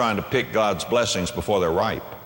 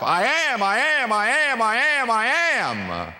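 building preacher's climax; 11 semitones higher than usual. Real, not acted. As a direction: build it up to a ringing shout. Preaching builds to full force.

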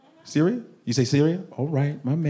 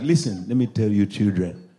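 stern father voice; 3 semitones lower than usual. Retold or imitated. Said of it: "one of those dads that's like".

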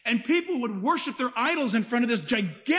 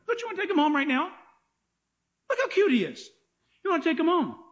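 high-pitched fussing over a cute pet; mock-doting, lifted pitch; playful cooing; 5 semitones higher, faster than usual. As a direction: coax them to adore the little lamb. Coos over the cute lamb.

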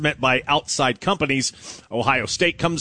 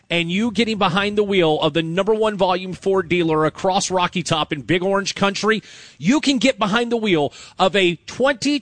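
radio ad read; 4 semitones higher than usual. Acted. Live car dealer ad read.

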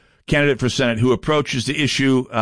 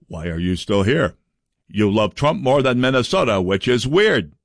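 lightly voiced lowered mock chairman; Richard Karlbaum impression; 2 semitones lower than usual. Host mocking the party chair's post, lightly lowered voice. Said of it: "excellent Richard Karlbaum impression".

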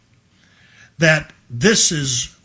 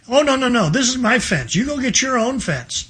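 put-on possessive boy; 7 semitones higher than usual. Acted Tom refusing friends in story.

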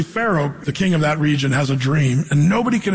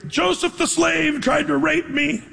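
yelling; 10 semitones higher, slower than usual. Retold or imitated. Potiphar's wife accusing the slave Joseph, shrill shout. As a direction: scream it out, accusing. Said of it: "she yells out".

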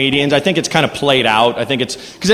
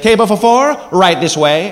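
put-on Italian waiter accent; 3 semitones higher than usual. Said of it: "he's like".

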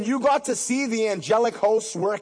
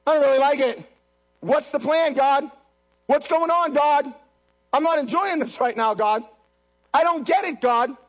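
raised, pleading complaint to God; complaining to God; 5 semitones higher than usual. Retold or imitated. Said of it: "you sit there and say".

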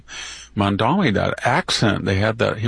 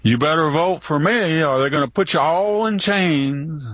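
higher, sarcastic imitation of a campaign threat; mock Biden quote; 5 semitones higher than usual. Commentator mocking Biden's campaign line, sarcastic imitation. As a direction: mimic the threat with a sneer, pitched up. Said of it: "like Biden said?".

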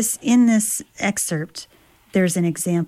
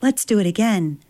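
excited; 3 semitones higher than usual. Acted. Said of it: "high on adrenaline".

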